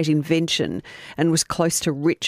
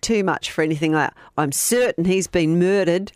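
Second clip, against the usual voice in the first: put-on Australian accent. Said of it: "Is that Australian enough".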